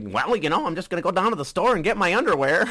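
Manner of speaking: high, put-on square white-guy voice; mock white-guy talk. Imitating a comedian's impression of a white guy, high caricature voice. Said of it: "that kind of talk".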